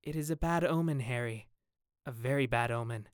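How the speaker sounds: mildly troubled, sighing gloom; understated foreboding; heavy sigh. Acted. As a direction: say it with a weary sigh, sinking toward the end. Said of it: "with a very heavy sigh".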